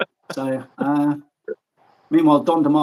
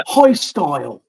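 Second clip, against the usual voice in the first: high style demo; 6 dB louder, slower than usual. Shown as a demonstration. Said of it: "when I was doing the high style example".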